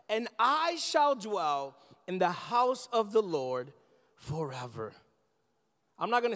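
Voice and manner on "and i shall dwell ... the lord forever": slow, weighty reading of the psalm, each line given space; solemn scripture reading. Acted. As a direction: lay each verse down slowly and reverently.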